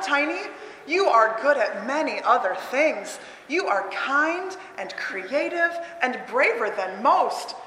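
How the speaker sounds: slow, gentle reassurance; comforting mother. Acted. Teacher reading the mother to kids, slow and tender. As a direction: soothe a sad little one.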